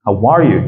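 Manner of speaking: HOW ARE YOU swelling up on ARE, then down; rising then falling. Shown as a demonstration. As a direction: lift ARE, drop on YOU. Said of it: "Soit on monte ou on redescend". (HOW ARE YOU, monte sur ARE puis redescend)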